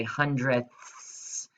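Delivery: slow hissing hundredths with a long s; playful snake hiss for the class. Shown as a demonstration. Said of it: "in your best snake voice".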